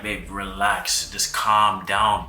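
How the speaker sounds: slow, soothing words to his wife; slow reassuring voice; calming. Retold or imitated. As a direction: settle her down gently and slowly. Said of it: "I'm like".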